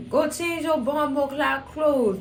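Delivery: imitated Jamaican scolding, drawn out; Jamaican accent. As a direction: order it slowly in a put-on Jamaican accent. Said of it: "she put on that Jamaican accent".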